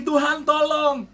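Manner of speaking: high, stretched-out mock yell; retold cry for help. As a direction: act out a long plea called upward. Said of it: "dia terus teriak lagi".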